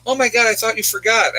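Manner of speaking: a lightly voiced mom, relieved and excited; mom's surprised delight. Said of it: "and she goes".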